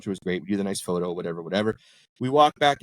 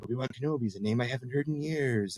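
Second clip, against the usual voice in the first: softly done Jedi impersonation; Alec Guinness; 2 semitones higher, 6 dB quieter than usual. Retold or imitated. Desk guy showing off his impression, light Alec Guinness imitation. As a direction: imitate someone's screen-actor impression, softer. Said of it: "he busts off this Alec Guinness impersonation".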